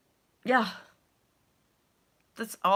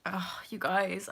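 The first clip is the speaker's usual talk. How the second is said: whisper; 3 semitones lower, 7 dB quieter, slower than usual. Real, not acted. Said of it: "I'm, like, nervous and scared".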